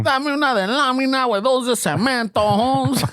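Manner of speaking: high, put-on chola voice. High chola voice, friend joking about the old lady. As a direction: order it like a tough homegirl.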